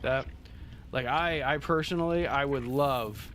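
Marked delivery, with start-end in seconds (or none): 2.3-3.3 LOVE drawn out slowly; heartfelt emphasis. Real, not acted. Gamer wishing for solar power, heartfelt stress on "love". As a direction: lean long and sincerely on "love". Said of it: "I truly mean this".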